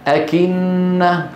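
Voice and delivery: slow demo, a gentle breath on the k in أكنة; light aspirated kaf. Shown as a demonstration. Teacher shows students the kaf's slight whisper, lightly aspirated. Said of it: "في همس لكنه خفيف".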